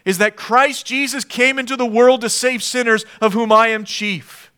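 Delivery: put-on Paul urging young Timothy, building earnestly. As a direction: press the truth on him with conviction. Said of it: "Paul is saying".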